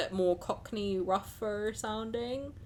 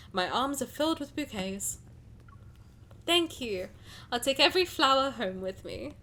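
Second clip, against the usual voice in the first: story narration; 3 semitones higher than usual. A narrator's reading. Reads game story aloud.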